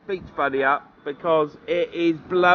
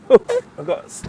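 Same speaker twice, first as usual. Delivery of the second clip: talking with sand in mouth; gritty mouthful of sand; 3 dB louder, slower than usual. Real, not acted. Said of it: "sand in my mouth".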